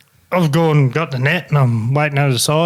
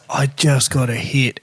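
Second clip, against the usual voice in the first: depressed; 3 semitones lower than usual. Retold or imitated. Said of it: "the most depressed I've ever seen this fella".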